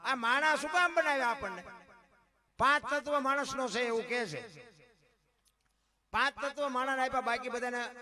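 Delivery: very loud, high devotional cry; impassioned preaching. Acted. Preacher crying out about Mira and Narsinh, very loud. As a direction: pour it out like a fervent sermon.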